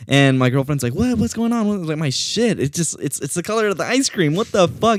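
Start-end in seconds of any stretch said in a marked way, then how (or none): 0.9-1.7 much higher, lightly voiced worried girlfriend; alarmed girlfriend. Girlfriend calling back to her startled boyfriend, high alarmed. 2.0-5.0 much higher, half-laughing panicky outcry; panicked disbelief. Retold or imitated. Man telling girlfriend his poop matches the ice cream, high panic.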